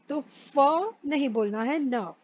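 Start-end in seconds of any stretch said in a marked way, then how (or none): 1.8-2.1 "नफ" with a very light, short f; barely touch the f in "नफ"; light f in neuf. Shown as a demonstration. Teacher showing a very light f in neuf. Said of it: "एकदम छोटा सा फ बोलना है".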